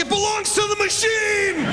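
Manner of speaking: high, slow, lofty pronouncement; solemn mock decree. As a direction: declare it like sacred law. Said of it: "I'm like".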